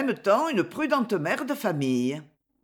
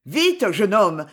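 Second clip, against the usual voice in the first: louder urging call; urgent shout; 5 dB louder, slower than usual. Acted. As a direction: hurry the young man along. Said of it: "cria le monsieur à la canne". (appel pressant, plus fort)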